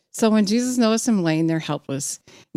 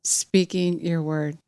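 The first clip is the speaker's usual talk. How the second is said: prayer. Real, not acted. A preacher praying before the sermon, earnest prayer. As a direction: pray it sincerely, letting it drop.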